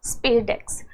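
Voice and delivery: "spadex" said as one word, SPAY-deks; pronunciation demo. Shown as a demonstration. Teacher showing students how the mission name "spadex" is pronounced, as SPAY-deks. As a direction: model "spadex" as two joined syllables, spay-deks. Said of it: "you can pronounce it as".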